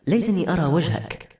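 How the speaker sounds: usual speaking voice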